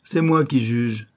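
slow, cold and clipped; officer coldly cutting her off; icy tone. Acted. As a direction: freeze her out with each word. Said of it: "d'un ton glacial".

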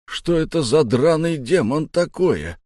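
high, slow cry of disbelief; startled exclamation. Acted. Sailor over a slain monster, startled exclamation. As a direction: exclaim it, pitch leaping up.

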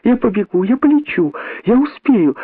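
put-on very high child's begging, building; pleading little monkey. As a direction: beg mum, rising to a near-wail. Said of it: "умоляла мартышка-дочка свою мать".

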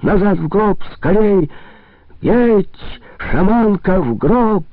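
very high, loud commanding cry; frenzied shaman's shout. A narrator's reading. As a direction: yell it out at full force. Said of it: "И ещё громче крикнул".

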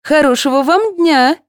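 high, earnest ceremonial greeting; heartfelt. A narrator's reading. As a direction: say it with feeling. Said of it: "с чувством произнесла".

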